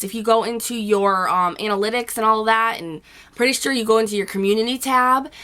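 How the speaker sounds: hoarse from a cold; rough, hoarse voice after a cold. Real, not acted. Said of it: "my voice is really rough".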